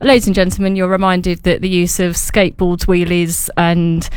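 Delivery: station announcer. Retold or imitated. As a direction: deliver it like a station tannoy. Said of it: "I heard the announcer say".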